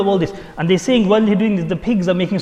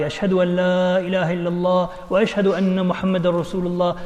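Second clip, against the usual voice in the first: sustained, chant-like declaration of faith; recited kalima; 2 semitones higher than usual. Retold or imitated. Shaykh comes out of the river, reciting the kalima. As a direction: recite it on a held, level tone. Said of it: "reads the kalima loudly".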